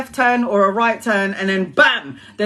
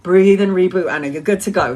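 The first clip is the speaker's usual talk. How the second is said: self-soothing; 2 semitones lower than usual. Retold or imitated. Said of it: "and then I'm going".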